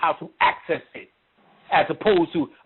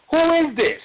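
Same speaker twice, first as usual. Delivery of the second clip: mock startled; 10 semitones higher, 4 dB louder than usual. Deities startled by the light.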